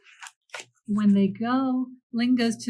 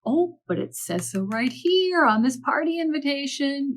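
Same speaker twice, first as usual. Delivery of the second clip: innocent mouse; 5 semitones higher than usual. Acted. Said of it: "Mouse said".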